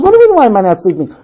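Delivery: rapid, near-normal pitched comeback; quick retort. Acted. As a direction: toss the question back quickly. First take of husband's retort.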